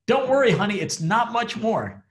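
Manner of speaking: old woman telling her husband it's nearly over, hammed-up sweet; wife reassuring. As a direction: cheerfully soothe him while still clubbing him. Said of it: "And she's like".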